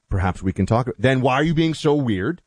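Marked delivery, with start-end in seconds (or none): 0.1-0.9 carefully neutral, lower-pitched suggestion; mock a too-neutral tone, low and even; overly neutral. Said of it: "if you go too neutral".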